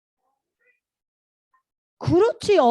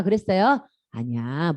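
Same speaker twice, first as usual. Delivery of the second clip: usual speaking voice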